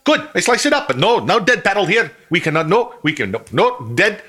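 put-on high, excited Middle Eastern accent; hammed-up Middle Eastern accent. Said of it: "that's an Indian voice, not a Middle Eastern voice".

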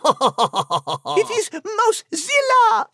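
playful announcement. Pretend.

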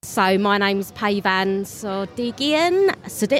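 slow, stumbling over the surname; tired guest tripping on own name; fumbled intro. Real, not acted. Guest fumbles own name to interviewer, slow and tripping. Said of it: "I can't even say my own name".

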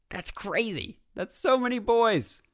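can't believe it; astonished. Real, not acted. Exclaiming about nine boys.

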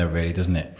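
muffled behind a hand; hand over mouth. Real, not acted. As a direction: speak through your hand. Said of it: "put my hand over my mouth while I'm talking".

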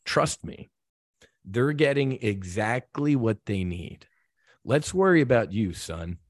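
calm him like a loving father; understated gentle voice of God. Retold or imitated. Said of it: "gently looked at me and said".

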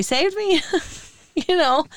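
real tears welling up, pushing through; getting emotional. Real, not acted. Wife thanking her mom for coming, tearful. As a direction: voice lifts high and breaks with emotion. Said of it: "here I'm getting emotional".

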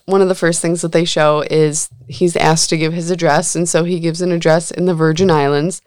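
usual speaking voice

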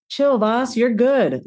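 easygoing, reassuring voice to oneself; calm yourself down like a friend; chill self-talk. Retold or imitated. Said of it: "Like I talk like that to myself".

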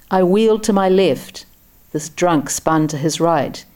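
plain reading voice

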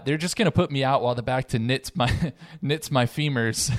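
reading while fighting back laughter; trying not to laugh. Real, not acted. Podcaster reading an absurd book quote to co-hosts, barely holding back laughter. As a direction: crack up partway through the line. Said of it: "can't even say that without laughing".

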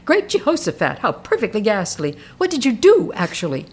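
lightly voiced Chummy, pitch jumping up in horror; a hint of a posh, shocked lady; quoting Chummy. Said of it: "and Chummy says".

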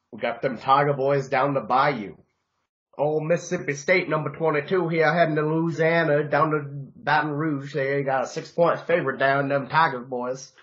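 badly faked Bayou accent, mostly in the speaker's own voice; terrible Bayou accent. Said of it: "That was a terrible, uh, Bayou accent".

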